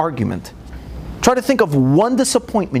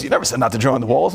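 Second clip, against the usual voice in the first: low, fast deadpan comeback; cheeky kid reply; 6 semitones lower, much faster than usual. Retold or imitated. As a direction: answer back like a smug little kid. Son answering back deadpan.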